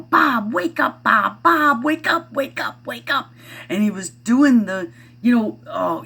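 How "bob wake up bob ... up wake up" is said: high loud mock yell of Bob, wake up; hammed-up urgent calling to wake someone; 1 mock shouting wake up. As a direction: son imitating movie wake-up shout. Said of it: "And he's going".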